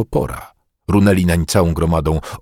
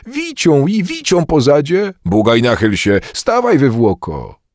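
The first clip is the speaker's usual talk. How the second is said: high jeering cry, slowing at the end; clamouring shouts; 7 semitones higher than usual. A narrator's reading. Crowd yells at Bugaj to take his whipping, clamouring. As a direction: clamour like a yelling mob. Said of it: "Rozwrzeszczała się gromada".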